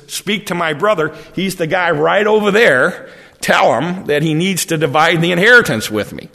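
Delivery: a mild mock demand, pointing at his brother; insistent plea.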